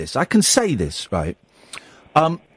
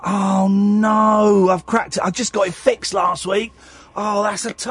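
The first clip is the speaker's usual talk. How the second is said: mock dream panic; slower than usual. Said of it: "it would be like".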